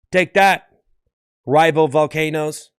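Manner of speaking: loud taunt, slowing on the rivals; gloating volcano. Pretend. Volcano taunts its rivals after erupting, gloating. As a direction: crow over your beaten rivals. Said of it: "a volcano getting the last eruption".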